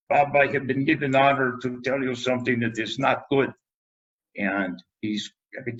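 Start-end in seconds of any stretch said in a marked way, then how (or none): 0.1-3.5 a lightly voiced grave old pathologist; imitating Ed Kaminsky. Pathology chairman breaking bad news to Bob, lightly mimicked and grave. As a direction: put on the old chairman's solemn voice, only a little. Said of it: "to imitate him".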